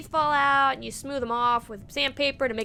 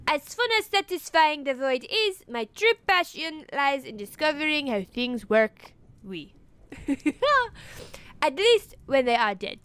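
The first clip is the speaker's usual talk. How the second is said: put-on French accent. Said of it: "a void shaman from Paris".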